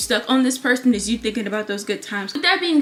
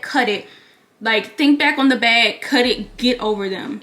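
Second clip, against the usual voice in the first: wearing a retainer; 3 dB louder than usual. Real, not acted. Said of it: "If I have a lisp or if I'm talking funny, it's because I have my retainers in".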